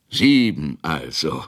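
langsam und etwas lauter, siegessicher; genieß den Treffer, gedehnt; triumphierend. A narrator's reading. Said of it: "triumphierte Ratschek". (Ratschek triumphiert über den Wurf)

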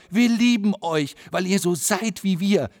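high, loud, slow cry of love; loud call. Acted. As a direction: call it out loud over covered ears. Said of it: "ruft ganz laut". (lauter, hoher Ruf)

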